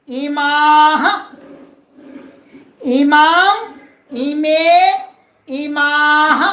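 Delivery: slow, drawn-out chant of each form; slow recitation. Shown as a demonstration. Teacher chants feminine forms for students, slow and drawn out. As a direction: stretch every form out for the class to follow.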